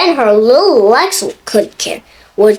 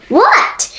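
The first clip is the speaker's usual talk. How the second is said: high, startled what; surprised question; 10 semitones higher than usual. Acted. Mister Uppity startled by the idea, high question. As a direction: jump in surprised. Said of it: "asked Mister Uppity".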